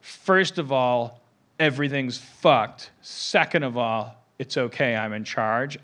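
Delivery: slow, measured, a hint of a stern father figure; fatherly authority. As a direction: lay it out like the man in charge. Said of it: "the male father figure going".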